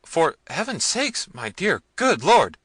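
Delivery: very high, loud pleading; panicked servant's wail; crying out. A narrator's reading. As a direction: beg the master desperately. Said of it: "cried Jaquez".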